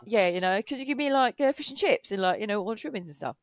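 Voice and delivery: imitating casual British chat; lightly put-on British accent. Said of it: "full on British accent".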